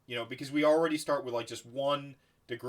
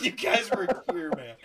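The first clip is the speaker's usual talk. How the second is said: laughing while quoting; 4 semitones higher, 4 dB louder than usual. Retold or imitated. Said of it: "he's just like".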